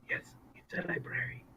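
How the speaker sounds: player's character whispering back to the librarian; whispering in accent. Acted. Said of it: "I'm not very good at whispering in this accent".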